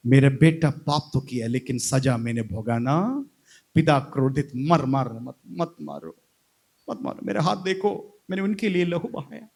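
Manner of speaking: low, lightly acted plea to a father; restrained plea for mercy; Jesus pleading. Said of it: "यीशु मसीह क्रूस पर पिता".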